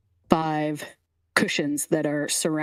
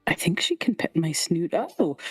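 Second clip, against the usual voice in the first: king caught off guard; 6 semitones higher than usual. Acted. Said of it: "and he's like".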